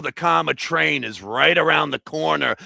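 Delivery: mock Boston accent with dropped R; terrible Boston accent. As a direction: put on a hammy Boston accent. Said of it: "with a terrible Boston accent".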